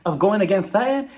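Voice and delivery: mock shock. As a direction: sputter in exaggerated shock, with questioning rises. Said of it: "she's shocked and".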